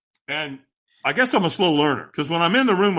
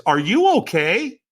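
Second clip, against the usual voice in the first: higher, louder puzzled question; puzzled concern; 5 semitones higher, 4 dB louder than usual. Acted. Trainer checking on a hesitant walker, puzzled. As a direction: ask it as a puzzled stranger checking in. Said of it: "with a really puzzled look".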